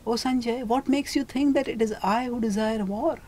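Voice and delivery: mild, gentle reply to the messenger; gently. Retold or imitated. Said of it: "Yudhishthira spoke very gently".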